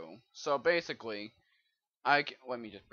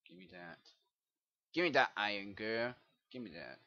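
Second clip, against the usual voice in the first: Tobuscus voice; 3 semitones lower than usual. Pretend. Player grabbing iron, hint of Tobuscus. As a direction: mutter a greedy give-me in a light Tobuscus style. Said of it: "I sound like a tobuscus right now".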